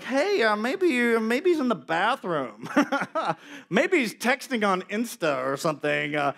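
a light mocking tease with laughs; taunting. Elijah taunting Baal's prophets, lightly laughing. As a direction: poke fun at them. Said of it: "Elijah taunts him".

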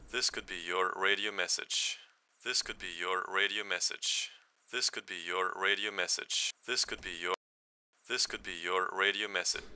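thin voice with the bass cut; like a cheap little microphone; high-pass filtered. Shown as a demonstration. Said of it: "you need a high-pass filter".

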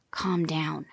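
a soft whisper to settle an upset friend; hushing whisper. Acted. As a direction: whisper it to calm them down. Jerry hushing the upset ladybug.

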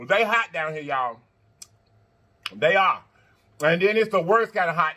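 talking with a mouth on fire from spice; mouth burning. Real, not acted. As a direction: speak through burning hot pepper. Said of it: "Mine are on fire".

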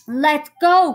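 urgent storybook yell; cried out. A narrator's reading. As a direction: cry it sharply. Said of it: "cried Annie".

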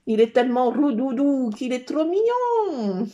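loud, slow, drawn-out cooing; gushing adoration. Real, not acted. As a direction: gush over an adorable pet. Gushing over her cat. (gaga, en étirant les mots)

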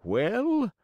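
high, loud, demanding villain; assassin voice. Acted. Assassins demand Pinocchio open his mouth, loud demanding villain. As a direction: bark the question.

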